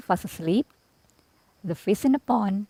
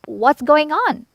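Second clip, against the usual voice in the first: slow, higher, puzzled chorus; puzzled animals; 7 semitones higher, slower than usual. A narrator's reading. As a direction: ask it slowly like the worried animals. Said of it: "the animals asked".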